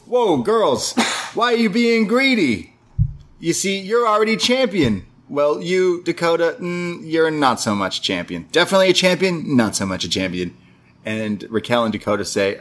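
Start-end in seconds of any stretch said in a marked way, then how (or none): 0.1-5.1 much higher, bubbly mock voice of an overexcited wrestler; high hyper Everrise voice. Podcaster imitating hyper Everrise scolding greedy champions, high mock voice. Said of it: "They say". 5.3-10.5 high hyper Everrise voice. Retold or imitated. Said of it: "They say".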